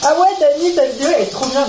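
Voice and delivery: lightly ape a gushing viewer; a hint of a sarcastic fan voice; mock viewer voice. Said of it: "Vous allez me dire".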